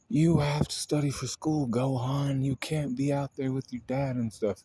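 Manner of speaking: lightly voiced bossy mother laying down the law; mock scolding mom; Chi-Chi scolding.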